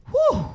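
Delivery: high, loud mock-tired "whew"; acted puff of tiredness. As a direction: blow out a high whoop of pretend exhaustion. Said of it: "He gonna get tired".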